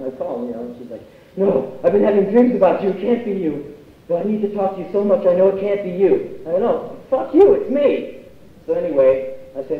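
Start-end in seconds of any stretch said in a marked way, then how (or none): 1.4-6.4 higher, frantic disbelief, lightly voiced; a friend who can't believe it's you, rushing; disbelieving friend. Deirdre disbelieving on phone. 6.6-8.3 higher, louder mock insistence; mock shout. Insisting over phone.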